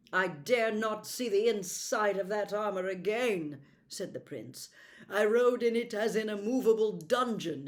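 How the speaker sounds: the prince. Acted. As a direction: noble prince grumbling about his captors. Prince refuses the armor.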